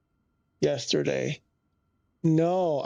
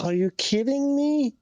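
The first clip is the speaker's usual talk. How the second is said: exasperated disbelief; 10 semitones higher than usual. Real, not acted. Streamer realising the notes file is gone, high and incredulous. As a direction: throw up your hands in disbelief. After deleting week of notes.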